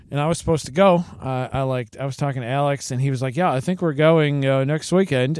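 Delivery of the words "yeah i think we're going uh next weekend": put-on British accent. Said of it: "your accent is good there".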